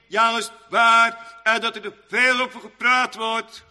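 loud, high pulpit declamation; forceful preaching. Real, not acted. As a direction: intone it forcefully, phrase by phrase.

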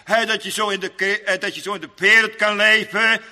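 loud, high pulpit declamation; forceful preaching. Real, not acted. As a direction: intone it forcefully, phrase by phrase.

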